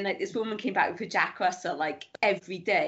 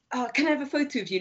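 imitated eager fan; 6 semitones higher, much faster than usual. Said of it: "this guy was like".

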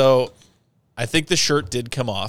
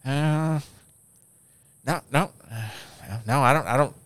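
imitated husband stalling on the phone; hammed-up hesitant fumbling, long gaps; dragged-out stalling; 4 semitones higher than usual. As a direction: play up the halting fake search. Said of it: "I didn't drag it out that much".

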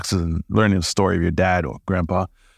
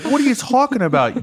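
disbelieving. Retold or imitated. Disbelief at dad's story.

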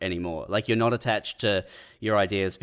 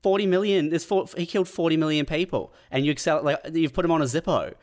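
half-hammed outrage at the souvenir seller; incredulous; 5 semitones higher than usual. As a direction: act stunned at the market stall. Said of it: "and you're going".

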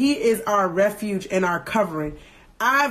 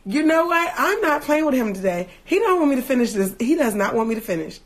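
exasperated; 3 semitones higher than usual. Real, not acted. Indignant at the enemy.

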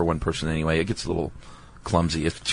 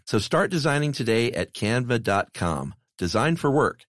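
smooth, softer podcast ad read; 2 semitones higher, 5 dB quieter than usual. Real, not acted. Host to listeners about Canva, ad read. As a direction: read the sponsor copy with lifted key words. Reads a sponsor ad.

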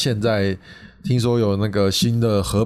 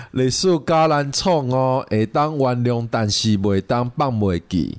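slow careful repeat. Shown as a demonstration. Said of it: "你那一句再一次".

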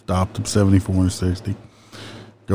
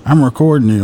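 much higher, whiny imitation of an angry driver; mock angry driver; 5 semitones higher than usual. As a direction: parody the driver demanding a badge number. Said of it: "he gets pissed off".

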